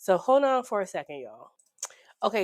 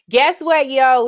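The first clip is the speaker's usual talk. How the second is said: loud, higher, bursting with news; excited call-out; 6 semitones higher, 11 dB louder, slower than usual. Real, not acted. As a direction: announce it to the audience with a shout of joy. Excited announcement of new money.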